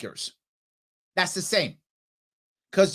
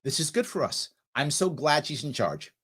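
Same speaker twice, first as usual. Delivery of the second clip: mock grateful New Yorkers; 2 semitones lower than usual. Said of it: "New Yorkers who think".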